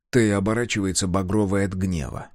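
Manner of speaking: plain reading voice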